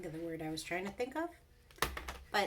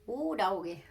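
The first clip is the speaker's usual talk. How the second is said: loud delighted exclaim; 7 dB louder than usual. Real, not acted. Excited exclamation.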